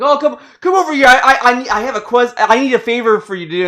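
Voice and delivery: put-on high, loud, pushy old lady calling out; mock old woman yelling for help; retold yelling old lady. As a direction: call the player over like a nagging old woman. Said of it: "yells at you".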